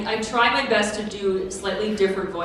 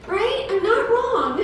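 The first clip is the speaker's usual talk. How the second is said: laughing; 12 semitones higher, 3 dB louder, slower than usual. Real, not acted. Still laughing after the demo.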